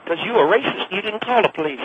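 put-on accusing old Southern woman; Clara Bingham voice. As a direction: accuse him like a cranky old lady. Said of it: "that was me doing her voice".

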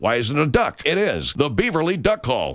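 folksy pitchman selling duck calls; radio ad read. Acted. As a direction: sell it like a cheesy radio ad.

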